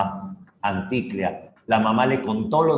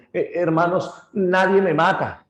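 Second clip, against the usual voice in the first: panicked cry; 8 semitones higher than usual. Acted. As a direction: cry out to his brothers in panic. Blinded cyclops calls brothers. (el cíclope herido pide ayuda a sus hermanos, gritando agudo)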